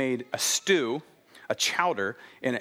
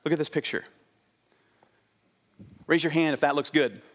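ordinary delivery

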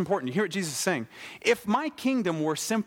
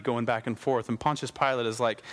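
ordinary talk, nothing marked

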